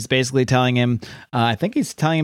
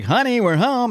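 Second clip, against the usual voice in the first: high, sing-song taunting voice; mocking villain greeting; 10 semitones higher than usual. Sensational Hydra unmasking to taunt Cap, mocking high sing-song. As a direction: tease them like a gloating villain.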